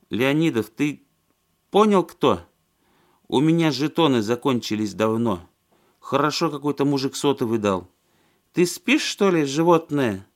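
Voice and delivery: put-on slurring drunk woman, high and loud; tipsy, sloppy, shouting into the phone. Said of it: "Она пьяно рассмеялась".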